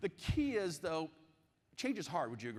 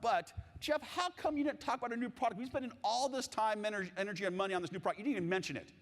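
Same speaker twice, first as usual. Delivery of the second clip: manager; 6 semitones higher than usual. Retold or imitated. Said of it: "And the manager says".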